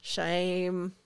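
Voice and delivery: long, level, drawn-out quote; Danny Butterman. Retold or imitated. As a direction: hold the one word evenly. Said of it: "I say that with that tone of voice".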